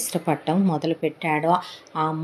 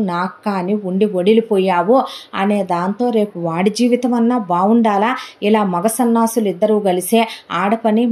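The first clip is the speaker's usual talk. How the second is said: worked-up, louder telling-off; understated acted reproach, pushing the voice a little; mild scolding; 3 semitones higher, 3 dB louder than usual. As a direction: scold a relative with exasperation, lightly acted. Acted scolding quote in a story.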